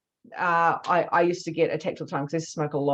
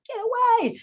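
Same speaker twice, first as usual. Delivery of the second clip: high, loud forceful "get away"; commanding shout; 5 dB louder than usual. Retold or imitated. Driving the demon off, a loud commanding cry. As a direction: banish it with one sharp command. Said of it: "put my energy in".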